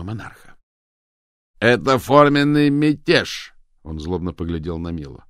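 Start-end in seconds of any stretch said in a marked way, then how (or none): 1.6-3.5 loud, slow, higher fury; angry outburst. A narrator's reading. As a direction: spit out the accusation. Cox glaring, furious.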